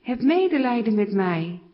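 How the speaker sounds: high, loud plea for attention; calling out loudly. A narrator's reading. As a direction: cry out over a crowd, pleading. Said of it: "Hij begint hard te roepen".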